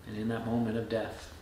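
solemn reflection. Real, not acted. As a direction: let it sink softly, weighing each phrase.

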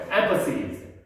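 emphasis with EM stressed, falling after; stress on first syllable. Shown as a demonstration. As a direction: lean on the start of emphasis. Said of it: "강세가 앞에 있어요".

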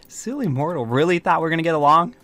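amused scoff. Acted. Scoffs after mortal leaves.

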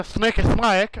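"snicky snake" with a lisp, s sounds turned to th; mock lisp. Imitating Jake's name for himself, lisped "snicky snake". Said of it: "as he likes to call it".

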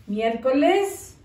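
"Miércoles" drawn out for writing; slow dictation. Shown as a demonstration. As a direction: stretch "Miércoles" slowly as you dictate. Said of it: "writing the date slowly". (dictado lento)

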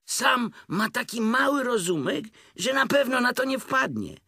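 high, urgent, breathless-with-eagerness tiger; feverishly excited. A narrator's reading. Tigger hurrying friends to Pooh, high feverish excitement. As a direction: urge them on in a high voice. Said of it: "gorączkował się tygrys".

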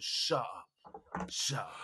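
low, soft dismissal; movie tough cop. Retold or imitated. Policeman silencing a begging suspect, like a crime-film hard man. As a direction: cut him off low and quiet. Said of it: "In a movie by".

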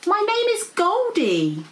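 high, slow, grand introduction; dragon character. Acted. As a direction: announce your name in a lofty drawl.

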